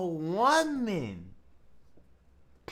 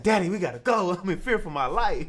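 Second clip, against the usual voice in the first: loud panicky plea to daddy; panicked son; 6 dB louder than usual. Retold or imitated. Son begging his father to flee, loud panicky plea. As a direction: beg loudly, scared.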